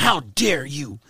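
slow, lightly put-on scolding girl; a hint of the teen activist's outrage, drawn out; mock Greta Thunberg. Mocking Greta's scolding to the podcast host, slow and put-on. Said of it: "The Greta Thunberg?".

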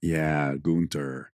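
German pronunciation of Gunther; German accent. Shown as a demonstration. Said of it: "Now that's an accent".

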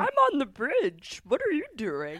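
half-hearted mock panic; milder retelling. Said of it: "And I was like".

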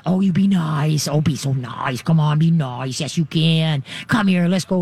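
calm the dog down gently; soothing diffusing. Shown as a demonstration. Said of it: "wanna diffuse".

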